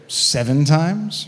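drawn-out, slightly cocky offer, rising at the end; a little cocky. Acted. Peter making Jesus his offer, a little cocky. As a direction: stretch it out as a cocky suggestion. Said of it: "he gets a little cocky here".

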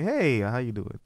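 mock white American greeting voice; put-on white American accent; white people impression. Shown as a demonstration. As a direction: imitate white people saying hello. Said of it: "White people, like".

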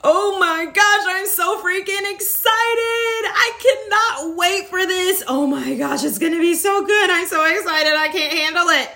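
high, squealing with excitement; giddy excitement. Pretend. To viewers, showing how to reframe nerves, giddy squeal. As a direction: gush like you can't wait. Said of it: "started saying to yourself".

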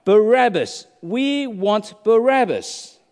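loud, high mock crowd cry; retold crowd scream. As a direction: call it out like a demanding mob. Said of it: "they screamed out".

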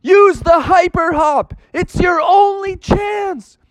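high, urgent holler. Acted. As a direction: holler it as desperate advice from the uncle. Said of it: "hollered out".

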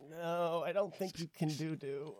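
high-pitched, drawn-out objection; imitated doubtful refusal. Acts out French friend's doubtful refusal.

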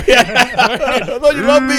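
high, slow, laughing cow plea. Pretend. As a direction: whine like a betrayed cow. Voicing a cow being sold.

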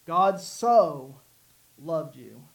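SO loud and drawn out, hanging before the last words; stress on SO. Shown as a demonstration. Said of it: "we talked about the word so".

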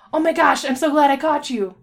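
high, loud, gushing relief; excited pony. Acted. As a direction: burst out delighted to find a friend. Excited pony greets her friend.

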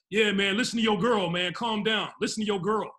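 loud mocking taunt; road-rage guy mocking him; taunting dude. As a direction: rub it in, smug and loud. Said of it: "the dude was like".

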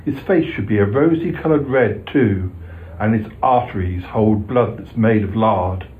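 rhythmic comic poem reading; poem recital. A narrator's reading. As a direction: recite it with bouncy verse rhythm.

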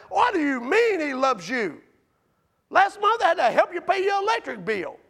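lightly voiced scoffing coworker; sneering coworker. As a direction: needle him about the bill.

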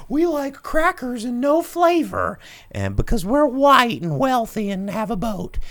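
hammed-up, prim rich white person; white stereotype. Host parodying the trailer's white stereotype jokes, high prissy voice. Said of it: "they're doing white stereotype jokes".

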